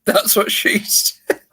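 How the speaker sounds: mouthful of water, half whispered; water held in mouth. Real, not acted. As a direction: gurgle it through held water. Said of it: "hold water in my mouth".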